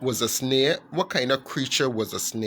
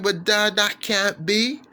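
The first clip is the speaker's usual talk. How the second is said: put-on protesting kid frog; 6 semitones higher than usual. Son protests.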